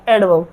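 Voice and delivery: "एडवर्ब" as ed-vuv, dropping low; correct silent R. Shown as a demonstration. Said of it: "आर है वो silent है". ("एडवर्ब" बिना र, नीचे स्वर में)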